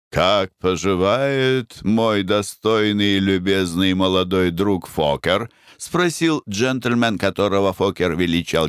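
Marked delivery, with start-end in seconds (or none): 0.1-5.5 put-on flowery old general. The general greets Foker.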